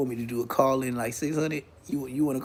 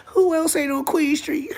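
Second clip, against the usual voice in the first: laughing; 12 semitones higher than usual. Real, not acted. Laughing at the chat.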